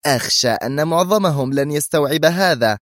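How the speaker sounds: high-pitched, worried doubt; nervous tension. A narrator's reading. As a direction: voice your fear with strained nerves. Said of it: "زفرت مستشارة الأمن القومي في توتر عصبي".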